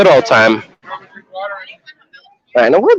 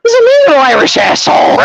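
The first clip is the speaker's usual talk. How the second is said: high, delighted outburst breaking into laughter; high-pitched amused mock insult; laughing exclamation; 13 semitones higher than usual. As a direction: blurt out a joke and crack up.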